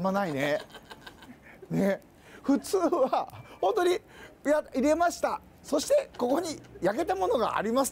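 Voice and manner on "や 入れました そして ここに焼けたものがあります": lightly imitated TV cooking presenter, slightly higher; телеведущий на съёмке. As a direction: present the finished dish in mock TV-demo style. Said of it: "ってやるんだけど".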